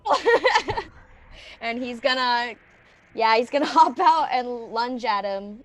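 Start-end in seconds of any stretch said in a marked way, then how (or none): 0.1-0.8 high mock-panicked cry; screamed reply. Player yelling back at the screaming robed man, high cry.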